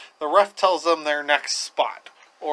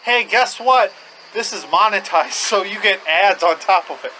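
lightly hammed-up announcer, higher and louder; mock-excited, higher pitch; mock announcement; 4 semitones higher, 5 dB louder than usual. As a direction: announce it with sarcastic cheer. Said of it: "you also have to be like".

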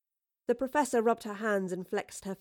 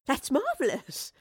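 slow, higher, beaming delight; 6 semitones higher, slower than usual. A narrator's reading. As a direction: savour the good news with a smile. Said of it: "The Professor beamed".

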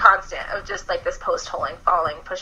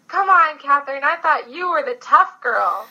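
encouraging buddy; 5 semitones higher, 3 dB louder than usual. Retold or imitated. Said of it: "he was trying to be encouraging".

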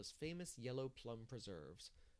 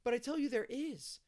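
put-on loud, high childish insistence; persistent; 13 semitones higher, 9 dB louder than usual. A narrator's reading. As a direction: insist hotly like a contradicted child. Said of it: "persisted Davy".

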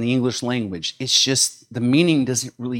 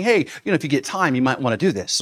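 casual suggestion; faster than usual. Retold or imitated. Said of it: "He's not saying".

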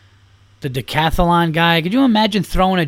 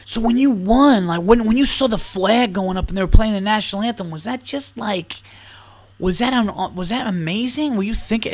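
mock interviewer; 4 semitones higher than usual. Comic mocks the reporter asking about the anthem. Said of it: "Not like".

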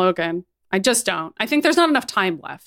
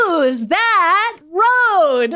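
words squeezed out through laughter; can barely get it out for laughing; giggling question; 9 semitones higher, 3 dB louder, much slower than usual. Real, not acted.

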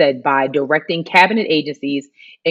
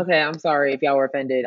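softer, lower mock apology; grudging apology; 3 semitones lower, 5 dB quieter than usual. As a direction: toss off a half-hearted sorry. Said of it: "her apology was very, like".

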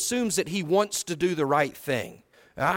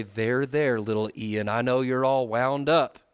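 condescending; 3 semitones lower, slower than usual. Shown as a demonstration. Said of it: "talk down to them and to say".

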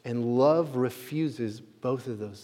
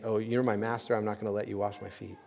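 humble protest; 5 semitones lower, 8 dB quieter, faster than usual. Retold or imitated. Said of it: "Now that sounds humble".

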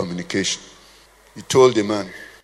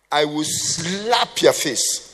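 mock threat; much slower than usual. Mock angry reply, slow.

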